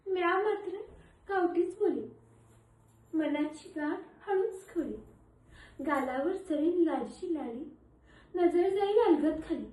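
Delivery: soft, shy acted murmur; लाजत. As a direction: say it softly, as if blushing. Imagines herself shy before prince. (लाजून हळू आवाजात)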